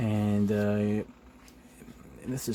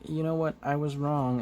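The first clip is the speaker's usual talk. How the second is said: higher-pitched admission; Spidey; 6 semitones higher than usual. Retold or imitated. Spidey backing down, higher voice. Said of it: "Spidey was like".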